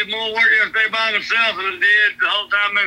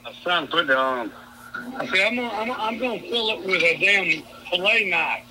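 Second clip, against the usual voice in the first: muffled phone voice; talking through a covered mic; finger over the mic; 4 semitones lower, 5 dB quieter than usual. Real, not acted. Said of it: "it sound is real muffled".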